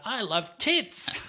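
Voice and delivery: put-on high, drawn-out kid's outburst; kid blurting out loud. Mimicking a kid's line to the co-host, high and drawn out. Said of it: "the kid says out loud".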